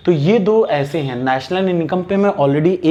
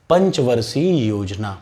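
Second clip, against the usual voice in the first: slow emphasis; 4 semitones lower, slower than usual. Shown as a demonstration. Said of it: "क्या निकालेंगे?".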